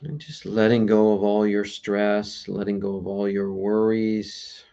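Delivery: low, unhurried meditation voice with long pauses; guided meditation. Real, not acted. Meditation host settling listeners into letting go, guided meditation voice. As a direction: ease listeners gently into stillness, leaving long pauses.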